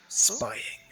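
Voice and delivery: hushed whisper. Acted. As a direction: drop into a secret whisper. Secretive spy voice.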